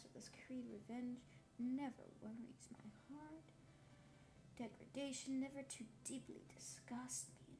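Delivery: whispered reading. Real, not acted. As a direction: whisper the passage gently, like ASMR.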